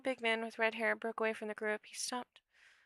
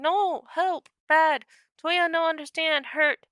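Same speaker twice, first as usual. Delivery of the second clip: high, loud, halting mimic voice; shrill creature cries; 3 semitones higher, 7 dB louder than usual. A narrator's reading. Distressed mimic protesting with its tongue out, high shrill cries. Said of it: "his voice shrilled, high, and crackly".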